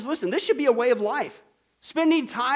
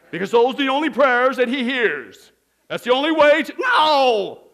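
shouted no; 3 semitones higher, 8 dB louder than usual. Real, not acted. Breaking off sarcasm, shouting no.

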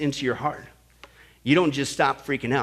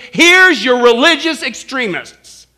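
mock presenter; 8 semitones higher, 11 dB louder, slower than usual. Quoting army briefing slide mockingly.

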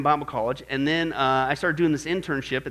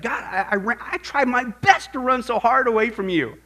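amazed prayer; 4 semitones higher than usual. Retold or imitated. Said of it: "I couldn't believe it".

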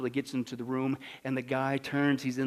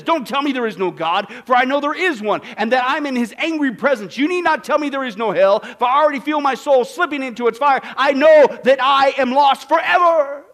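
anguished last words; 10 semitones higher, 13 dB louder than usual. Retold or imitated. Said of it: "he says".

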